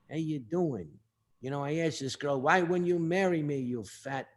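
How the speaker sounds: New York boxing manager's talk; Cha Cha. Acted. Manager recounting asking a girl to marry, New York accent. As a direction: imitate a New York tough guy telling a story. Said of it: "That's how he talked".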